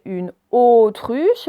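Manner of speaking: "autruche" with a long closed first /o/; stretched O sound. Shown as a demonstration. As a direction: lean slowly on the "au" of "autruche". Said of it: "avec le O". (« autruche », premier son O allongé)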